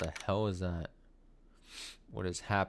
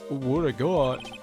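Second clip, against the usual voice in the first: Detective Gumshoe voice; 3 dB louder, slower than usual. Acted. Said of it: "my Detective Gumshoe voice".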